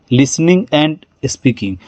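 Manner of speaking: slow teacher's demo, leaning on "listening" and "speaking" but easing off "and"; stress on key words. Shown as a demonstration. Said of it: "लिसनिंग पे जोर दिए".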